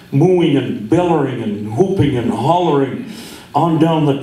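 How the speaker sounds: measured poem recital, lingering pauses; cowboy poetry. Acted. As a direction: read it like a slow campfire poem.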